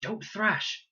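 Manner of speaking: high, loud firm order; urgent command. A narrator's reading. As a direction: tell her sharply to stop. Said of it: "she said".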